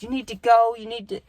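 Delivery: high-pitched mock nagging, no real yell; mock bossy yelling. Teller imitates bossy girl telling her to go, mock yelling. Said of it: "the bitchy girl that was yelling".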